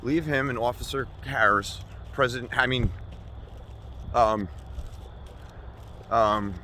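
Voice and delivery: mock-outraged defense of the guy; heated rant. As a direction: build into a shouting defense. Escalating comic rant.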